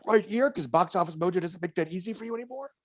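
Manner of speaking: normal talking voice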